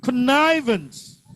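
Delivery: Connivance, slow and high on "niv"; stress on second syllable. Shown as a demonstration. Teacher showing the class stress patterns, Connivance stressed on "niv". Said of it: "Second syllable".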